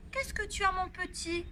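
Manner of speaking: put-on high tender coo to a baby; cooing babysitter.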